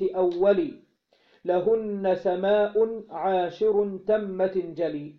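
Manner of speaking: slow, measured recitation of a teaching verse; measured verse reading; slow verse recital. Acted. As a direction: chant the line out slowly like a memorised poem.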